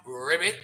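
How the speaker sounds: imitated frog "Ribbit"; frog croak. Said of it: "you know how he sound".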